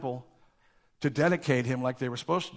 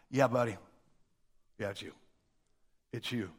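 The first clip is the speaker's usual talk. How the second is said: softer, lower calm confirmation; quiet knowing reply; 6 semitones lower, 5 dB quieter than usual. Retold or imitated. Jesus quietly telling Judas it is him, softer and lower. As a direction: tell him gently, you know. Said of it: "And Jesus answered".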